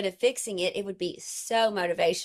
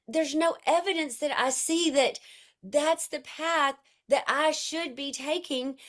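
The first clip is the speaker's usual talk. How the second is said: earnest plea; 5 semitones higher, slower than usual. Retold or imitated. Tearful plea to her teacher.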